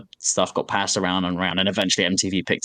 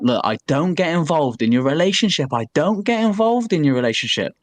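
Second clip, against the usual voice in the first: calm; 5 semitones higher than usual. Retold or imitated. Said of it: "starting to calmly say".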